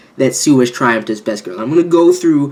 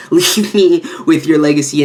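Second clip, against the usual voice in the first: laughing quote; 3 semitones higher, 3 dB louder than usual. Retold or imitated. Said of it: "she's like".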